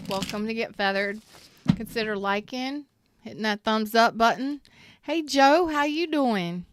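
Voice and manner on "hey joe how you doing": high, loud sing-song greeting; a high, loud hello to Joe; odd greeting voice. Real, not acted. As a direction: hail a friend in a big high call. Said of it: "I don't know why I said it like that".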